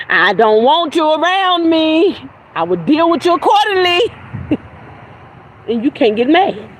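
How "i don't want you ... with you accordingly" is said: mocking voice. Real, not acted. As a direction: put on a mocking tone. Mocking voice, high and slow.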